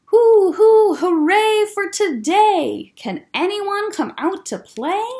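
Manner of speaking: loud, high hooting call; shouting into the night. Acted. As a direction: call out to the whole dark forest. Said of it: "Owl shouted into the night".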